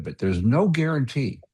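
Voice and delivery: ordinary delivery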